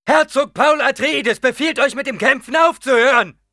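loud ducal order; commanding shout. A narrator's reading. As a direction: command the whole cave. Duke commands fighters to stop. (befehlender Ruf)

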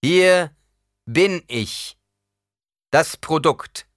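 laut und hoch vor der Menge ausgerufen; lauter. A narrator's reading. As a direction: wie eine Ansprache an die Kameraden. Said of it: "Lauter sagte Paul". (Paul ruft laut zu den Kameraden)

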